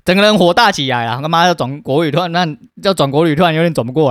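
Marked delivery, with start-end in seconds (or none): none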